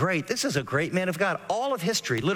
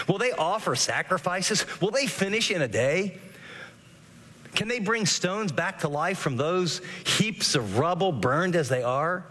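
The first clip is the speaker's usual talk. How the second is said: higher, slowing mockery building to a sneer; sarcastic; 3 semitones higher than usual. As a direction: taunt them, each question dripping with scorn. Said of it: "You can hear the sarcasm in his voice".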